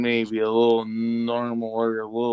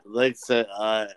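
politician voice; 3 semitones lower than usual. Retold or imitated. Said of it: "You sound like a fucking politician".

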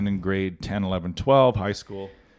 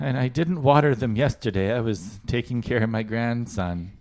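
put-on old lady voice. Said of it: "I like your old lady voice".

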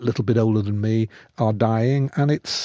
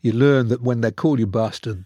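normal talking voice

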